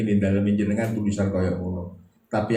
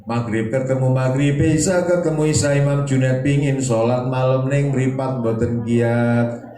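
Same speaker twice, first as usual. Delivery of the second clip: louder and higher, a dramatic sermon build that slows right down on boten kiat; raised preaching refrain; 4 semitones higher, 4 dB louder than usual. Acted. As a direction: preach it loud, then let it sag with sleepiness. Same refrain repeated in story. (refrain khotbah keras lalu melambat)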